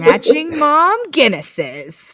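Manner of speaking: put-on loud, high, slow German-accented English; mock German accent. Mimicking co-host's version of the podcast name, mock German accent. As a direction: boom it out in a silly German accent. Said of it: "in a German accent".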